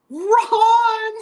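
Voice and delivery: sudden high yell of run; panicked shout to flee; shouted warning. Retold or imitated. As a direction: yell it to scatter everyone. Roadie yelling to flee gunmen.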